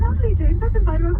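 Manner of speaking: high, fluting British caricature; hammed-up, high British impression; mock British accent. Mimics British friends of caller.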